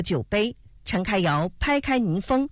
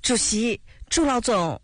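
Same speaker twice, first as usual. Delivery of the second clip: slightly higher, bashful address; a touch of shyness in the voice; mildly shy; 4 semitones higher than usual. A narrator's reading. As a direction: address them a little bashfully. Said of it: "羞涩地说".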